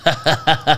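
imitated creepy laughter; scary laugh. Waking up to someone laughing, scary mock laugh. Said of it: "laugh in a scary way".

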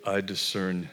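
low, hushed, ominous pronouncement; spooky discerner voice. Retold or imitated. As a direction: intone it like an eerie mystic. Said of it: "like it is some sort of".

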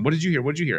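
high-pitched frantic dog chatter; escalating dogs. Retold or imitated. Owner voices his two dogs egging each other on, escalating. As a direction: mimic dogs going up and up. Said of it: "they're just going up".

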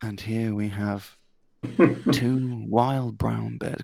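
slow, hushed wildlife narration; nature documentary narrator. Pretend. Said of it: "pretend that you're narrating two bears mating".

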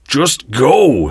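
high, urgent yell. A narrator's reading. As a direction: yell at her to flee, voice jumping up. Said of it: "he yelled".

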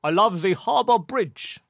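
mock Sydney accent. Shown as a demonstration. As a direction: show off a broad Sydney accent. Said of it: "this is my Sydney accent".

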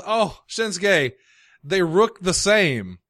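slow mocking accent, stretched words; mock Japanese accent. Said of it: "he slows it down so you make sure you hear the rook".

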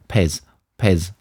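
Pez said in a British accent; plain British accent on Pez. Shown as a demonstration. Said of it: "if you say Pez in a British accent".

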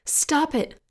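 high, loud, desperate yell. A narrator's reading. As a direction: yell it out, begging it to end. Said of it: "Joanne yelled".

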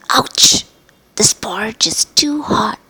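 whispered yelp at hot porridge, "too" pushed; girl burnt by hot porridge, hushed; exclaimed. Acted. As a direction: gasp then whisper it's too hot. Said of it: "she exclaimed".

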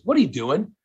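sister scolding. Retold or imitated. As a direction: imitate a sister calling him out. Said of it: "She goes".

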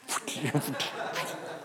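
soft puffed swish noises; imitated splashing. Preacher showing how the girl dove, imitated swishes. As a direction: mimic her light dive in little puffs. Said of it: "she went like".

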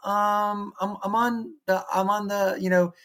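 a hint of a kid busy gaming; reluctant kid. Kid brushing off dad's game invite, lightly voiced reluctance. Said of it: "they would have been like".

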